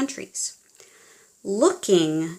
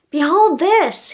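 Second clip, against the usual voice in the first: loud, high proclamation; louder grand announcement; cried out; 8 semitones higher, 7 dB louder than usual. Acted. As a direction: cry it like a showman unveiling. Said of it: "he cried".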